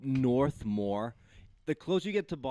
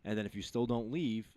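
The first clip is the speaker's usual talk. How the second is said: much softer, lower professional voice; calm de-escalation; 7 semitones lower, 10 dB quieter than usual. Retold or imitated. Worker handling someone filming them, calm low script. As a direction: state the steps quietly, evenly.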